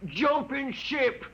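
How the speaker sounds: high, singsong feigned shock; mock dismay. Betrayer taunting the men he turned in, mock dismay. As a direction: tut at them in a high taunting lilt.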